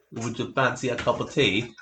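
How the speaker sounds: amused mock-British accent. Shown as a demonstration. Friend showing off British on request, mock British accent. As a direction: put on a British tea-time voice. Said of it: "You can do British".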